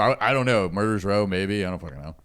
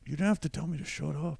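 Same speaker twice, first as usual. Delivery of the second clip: whiny heckler; 7 semitones higher, 6 dB quieter than usual. Retold or imitated. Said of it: "And he's like".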